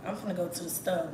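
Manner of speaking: country Texas accent, "store" losing its R. Shown as a demonstration. Showing how we Texans talk, country Texas accent. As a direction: drop the R in "store", Texas style. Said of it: "and we be like".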